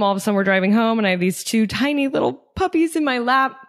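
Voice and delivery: ordinary talk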